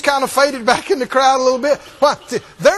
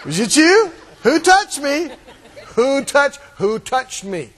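persistent Jesus; 2 semitones higher, slower than usual. Retold or imitated. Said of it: "he just keeps standing there going".

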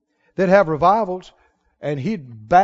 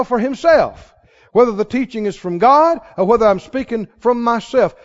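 scripture reading; 4 dB louder than usual. Real, not acted. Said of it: "The Amplified says".

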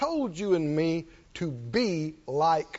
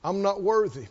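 softer, hammed-up humble refusal; mock unworthiness; 4 dB quieter than usual. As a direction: turn down the gift in mock self-pity. Mock child refusing a gift.

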